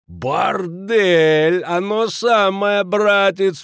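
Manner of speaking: put-on high, slow boisterous drunk; drunken glee. A narrator's reading. Kraner dragging the innkeeper to the mill, drunkenly jolly. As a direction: haul him along, whooping.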